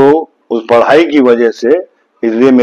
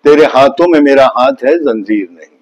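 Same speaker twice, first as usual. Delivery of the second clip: poem recital; 3 semitones higher than usual. Shown as a demonstration. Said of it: "क्या बात है".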